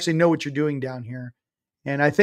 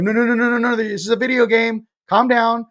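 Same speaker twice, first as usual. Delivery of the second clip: higher, hurried voice calming someone down; mock soothing council; 6 semitones higher than usual. The beings up above telling him to calm down, higher. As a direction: play the beings hushing a hothead. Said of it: "And they're like".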